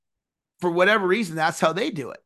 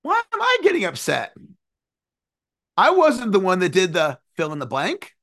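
exasperated self. Retold or imitated. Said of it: "And I'm like".

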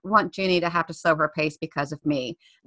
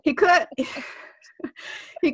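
teary; 7 semitones higher than usual. Real, not acted. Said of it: "this is so ridiculous".

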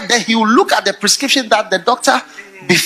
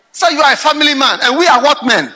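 laughing question; 5 semitones higher than usual. Acted.

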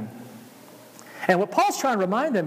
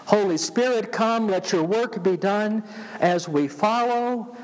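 slow, prayerful recitation; reciting hymn lyrics; slower than usual. Acted.

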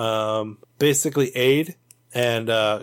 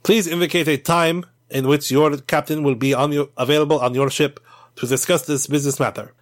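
mild officious tone. Acted. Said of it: "and Jinko says".

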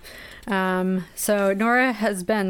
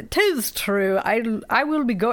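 put-on Irish accent; 4 semitones higher than usual. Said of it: "in the worst Irish accent that I could".

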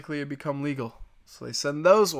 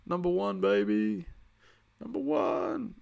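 excited cheer; 5 semitones higher, slower than usual. Real, not acted. Cheering his team.

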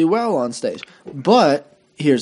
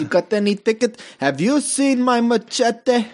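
mock South Asian accent, pitched higher and slowed; a hammed-up generic brown accent, lightly put on; 10 semitones higher than usual. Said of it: "what accent I was trying to do there".

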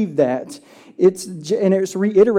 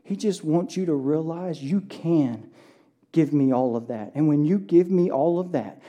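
soft voice of God; 3 semitones lower, 6 dB quieter than usual. Acted. Voicing God, softly.

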